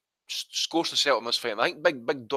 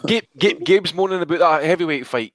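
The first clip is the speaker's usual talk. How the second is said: laughing; 4 semitones higher, 9 dB louder than usual. Real, not acted. Teasing Gabe over his moaning.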